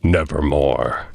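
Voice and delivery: a hint of an ominous raven; lightly voiced raven. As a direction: drop low and lay it down like a dark bird. The raven's answer.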